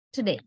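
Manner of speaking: TODAY with the first syllable squeezed to a quick "tuh"; quick unstressed syllable. Shown as a demonstration. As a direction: say TODAY as t'day, British style. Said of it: "They quickly say".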